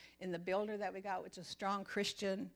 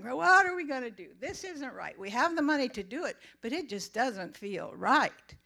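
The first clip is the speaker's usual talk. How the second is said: distressed crying; 4 semitones higher, 7 dB louder than usual. Retold or imitated. Crying over the project on the couch.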